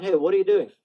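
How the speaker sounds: loud, high challenging shout; calling out. Shown as a demonstration. Calling out someone who is threatening you, loud challenge. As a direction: call them out at full voice. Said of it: "Just call them out".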